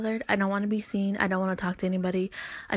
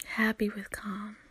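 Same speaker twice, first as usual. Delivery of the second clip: softer, breathy whispered happy with calm; 5 dB quieter than usual. Shown as a demonstration. Advising her listeners, she whispers Happy with calm softly. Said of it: "repeats the phrase two ways".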